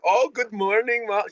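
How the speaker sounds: high mock foreign-accent greeting, cut off; imitating Silke's accent. Host imitating Silke's accent greeting the dog, broken off. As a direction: try Silke's accent on a cheery hello, then give up. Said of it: "'cause I can't do the accent".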